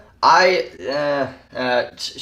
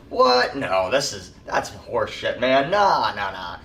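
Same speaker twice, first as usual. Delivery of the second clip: mock disbelief; 3 semitones lower than usual. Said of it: "him just going".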